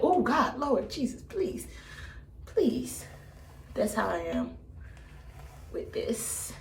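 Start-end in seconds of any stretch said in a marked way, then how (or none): 0.0-3.1 higher-pitched mock praying; imitated frightened plea. Acting out being caught in thunder and lightning, mock panicked prayer. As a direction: plead quickly to heaven, playing scared. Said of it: "you're like".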